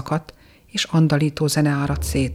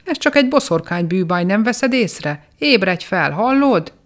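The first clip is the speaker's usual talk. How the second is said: pleading yell climbing higher, slowing at the question; urgent shouting; 4 semitones higher than usual. Acted. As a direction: shake him awake with your voice. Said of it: "kiáltottak rá a tippantók".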